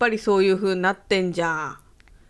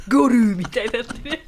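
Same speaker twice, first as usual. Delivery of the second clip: ゴルルみたいになってる laughed out, louder, ゴ stressed; laughing; 2 semitones higher, 5 dB louder than usual. Real, not acted. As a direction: repeat ゴルル through laughter, hitting ゴ. Echoing it while laughing.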